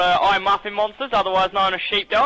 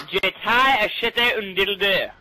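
French phrase. Shown as a demonstration. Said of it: "find out how to say".

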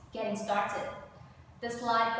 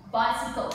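Bicycle, loud with the first syllable stressed; 7 dB louder than usual. Shown as a demonstration. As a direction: model "Bicycle" for repetition, hitting the first syllable. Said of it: "you start at the first one".

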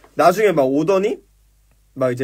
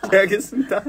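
laughing reply; 5 semitones higher than usual. Retold or imitated. Recruit answer, laughing.

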